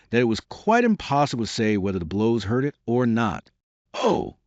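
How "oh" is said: high, alarmed plea; pleading. Acted. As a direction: beg them to stop. Alice begs amid flying dishes.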